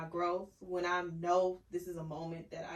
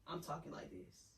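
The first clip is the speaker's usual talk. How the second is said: measured, slowing to a soft close; deliberately not loud; 12 dB quieter than usual. Shown as a demonstration. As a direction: keep it contained, dropping softer at the end. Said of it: "I'm not getting loud".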